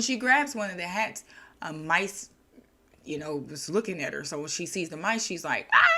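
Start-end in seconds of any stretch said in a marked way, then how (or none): 5.7-5.8 short high mock scream. Milliner spots mice on the hats, mock scream. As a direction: yelp like a startled shopkeeper. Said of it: "She's, she screams".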